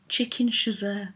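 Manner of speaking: chasseur said plainly as "shuh-ZUR"; "chasseur" as "shuh-ZUR", no French accent; own anglicised pronunciation. Real, not acted. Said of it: "that's how I'm saying it".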